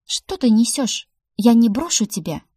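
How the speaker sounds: wife protesting to her husband, indignant. A narrator's reading. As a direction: refuse him outright. Heroine refuses to leave husband.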